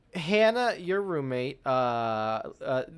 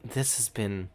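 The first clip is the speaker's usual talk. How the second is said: weary sighing; 5 semitones lower, 4 dB quieter than usual. Acted. Roommate summing up the day to Hannah, weary sigh. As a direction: sigh it out with long pauses. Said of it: "just, like, sigh".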